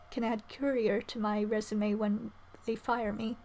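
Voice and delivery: ordinary talk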